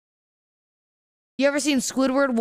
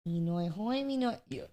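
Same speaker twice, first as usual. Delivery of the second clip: fake foreign language; 10 dB quieter than usual. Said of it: "Doodle Bob".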